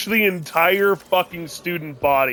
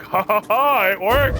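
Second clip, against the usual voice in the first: imitated gleeful laugh; 6 semitones higher than usual. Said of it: "And I'm like".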